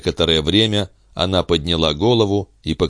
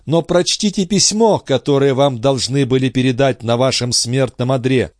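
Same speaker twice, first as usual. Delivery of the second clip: put-on a young woman's higher voice in despair; grieving heroine, raised and higher; Andrée's anguished voice; 7 semitones higher than usual. A narrator's reading. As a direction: lament it, lifted and pleading. Andrée urging.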